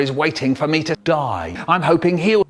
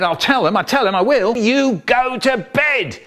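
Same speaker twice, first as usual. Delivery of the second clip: threat; 9 semitones higher than usual. Retold or imitated. Brother threatening little brother.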